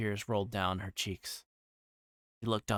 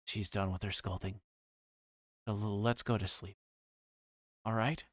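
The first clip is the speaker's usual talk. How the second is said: gentle. A narrator's reading. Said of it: "so I gently told her".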